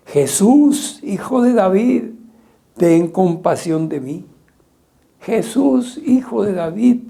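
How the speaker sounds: high, loud desperate cry; shouting for mercy. Retold or imitated. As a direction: call out over a crowd, pleading. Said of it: "se puso a gritar".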